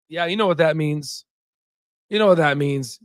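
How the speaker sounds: dropped low and soft, conspiratorial; knowing hush. Real, not acted. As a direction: let them in on the secret. Knowing hush after the hype.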